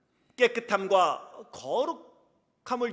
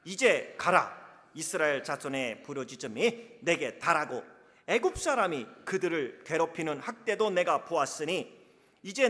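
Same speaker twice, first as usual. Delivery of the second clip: 하나님 말씀 낭독; 5 dB louder than usual. Shown as a demonstration. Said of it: "어떠한 감정적인 느낌이 들 건가 생각하며 읽겠습니다".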